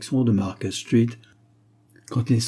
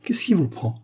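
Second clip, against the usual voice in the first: drawling; 8 semitones higher than usual. A narrator's reading. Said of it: "dit-il d'une voix traînante".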